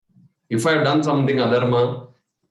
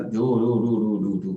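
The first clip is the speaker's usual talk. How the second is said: mock droning; 5 semitones lower, 4 dB quieter, faster than usual. Mimics somebody reciting the Purana.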